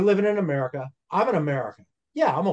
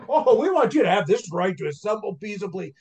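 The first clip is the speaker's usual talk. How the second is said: sarcastic mock of the powers that be; mock elite voice; 4 semitones higher than usual. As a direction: play the condescending elite granting a favour. Mocking the elites' offer.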